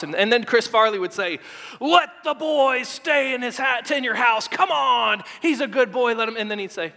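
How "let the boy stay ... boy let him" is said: hype man. Retold or imitated. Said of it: "his hype man".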